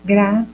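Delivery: "engraçado" broken up with long gaps between syllables. Shown as a demonstration. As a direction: pause after each syllable of "engraçado". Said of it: "separamos todas as sílabas".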